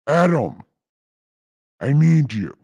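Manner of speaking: a hint of a booming God calling; God calling Adam, lightly voiced. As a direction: call out as a mildly impatient God. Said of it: "in God voice".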